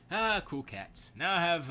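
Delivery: ordinary talk, nothing marked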